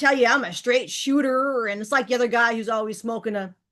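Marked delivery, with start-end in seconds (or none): 0.0-1.7 put-on folksy cowboy voice, higher pitch. Mocking a masculine man who calls himself a straight shooter, folksy cowboy voice. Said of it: "I'm gonna speak like this and be real folksy and cowboy".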